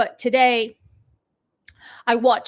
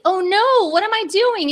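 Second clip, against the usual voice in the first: higher, louder alarmed "oh no"; flustered; 6 semitones higher, 6 dB louder than usual. Real, not acted. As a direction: panic briefly over the slides. Flustered at slides.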